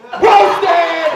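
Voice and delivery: very high, loud triumphant yell; top-of-lungs scream. Acted. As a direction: throw the kid's own scream back, full blast. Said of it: "scream "roasted" at the top of his lungs".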